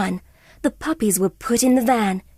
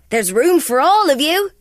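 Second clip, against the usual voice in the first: friendly Labrador; 5 semitones higher, 4 dB louder than usual. Acted. Labrador voiced.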